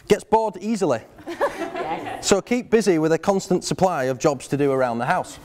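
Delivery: reading out a mock contract. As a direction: read the contract like an official document. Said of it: "it reads".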